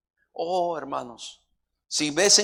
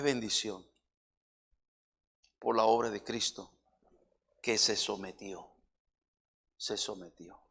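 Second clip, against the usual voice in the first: low, soft and solemn sermon; lowered reverent preacher's voice; hushed preaching; 4 semitones lower, 6 dB quieter than usual. Real, not acted. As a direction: preach quietly and low, with long pauses.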